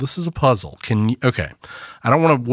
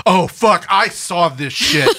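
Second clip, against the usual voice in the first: laughing; 6 semitones higher, slower than usual. Real, not acted. Recognizes the movie, laughing.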